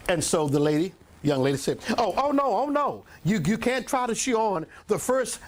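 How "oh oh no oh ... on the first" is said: flustered saleslady. Retold or imitated. Saleslady refusing, voiced in story.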